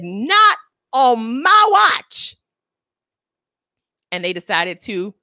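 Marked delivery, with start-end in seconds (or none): 0.0-2.4 slow, high, loud defiant declaration. Retold or imitated. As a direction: draw the line firmly. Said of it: "And Black Twitter said".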